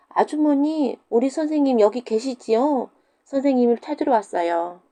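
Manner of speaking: put-on high child voice calling out; calling children. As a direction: call through the door like cheeky kids. Pupils calling at widow's house. (과부 집 앞에서 부르는 아이들 목소리)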